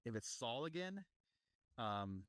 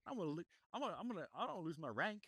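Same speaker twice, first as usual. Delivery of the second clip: higher, fast panicky whine; whiny officer voice; 7 semitones higher, faster than usual. Retold or imitated. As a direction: whine about losing rank. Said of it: "he's just like".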